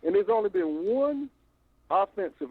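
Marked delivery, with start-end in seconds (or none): 1.9-2.5 offensive given a firm push and a falling end; stress on offensive. Real, not acted. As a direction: lean hard on "offensive". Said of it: "and I stress the word offensive".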